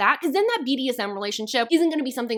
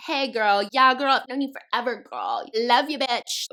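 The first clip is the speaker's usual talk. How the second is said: mock girl talk. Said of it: "their idea of female friendship in this book is literally like".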